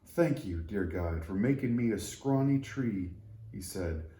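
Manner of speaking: a lightly voiced humble tree; grateful little tree. Tree thanking God for making it scrawny, humble and sincere.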